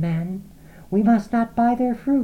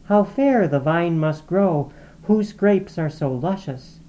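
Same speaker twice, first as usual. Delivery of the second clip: whispered; 7 semitones higher, 3 dB louder than usual. A narrator's reading. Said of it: "whispered like the restless brook".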